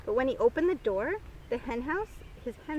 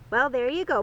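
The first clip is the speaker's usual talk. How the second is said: breathing hard; 5 dB louder than usual. Acted. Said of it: "breathing hard".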